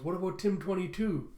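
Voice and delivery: lightly acted plaintive appeal; worried protest. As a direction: ask with mild worry, voice lifted. Tim protests while running away.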